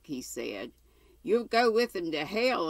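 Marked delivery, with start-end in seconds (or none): 1.2-2.7 mild narrated outburst, pitched higher; raised-pitch retort in a storyteller's reading; exclaimed. A narrator's reading. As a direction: exclaim it as the master, lightly heated. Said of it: "exclaimed his master".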